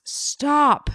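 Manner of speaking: sharp high shouted command; retold shout. Attorney grabs the detective to halt the interview, imitated shout. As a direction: cut it off with a sudden imitated shout. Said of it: "and he shouts".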